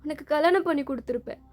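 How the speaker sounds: mother scolds her son through tears; angry and tearful. Acted. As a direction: demand how he could do this. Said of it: "அவங்க அழுதுட்டே".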